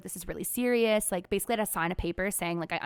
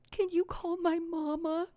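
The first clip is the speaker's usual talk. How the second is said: high, slow pitiful little voice; patient retelling her plea to the surgeon, high pitiful voice; retold pleading; 8 semitones higher than usual. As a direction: whimper it like a scared child asking for mama.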